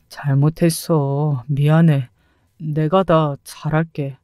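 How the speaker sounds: low, slow mock begging; a hint of a man pleading for forgiveness; pleading husband. Ex-husband begging his wife to take him back, low slow plea.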